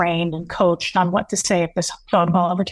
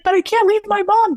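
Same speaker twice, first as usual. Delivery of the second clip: very high, louder crying plea; imitating a desperate wail; 13 semitones higher, 3 dB louder than usual. Son pleading with grandfather not to leave, high wailing cry. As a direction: wail it out like a breaking kid. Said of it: "it was so heart-wrenching".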